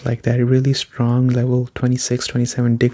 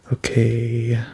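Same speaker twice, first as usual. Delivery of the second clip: strained, fading voice; losing voice. Real, not acted. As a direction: voice giving out. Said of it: "what's wrong with my voice".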